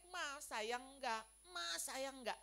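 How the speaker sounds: lightly imitated whiny child, words drawn out; child's whining plea. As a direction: slowly beg Mom for reassurance, mock whine. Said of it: "saya merengek".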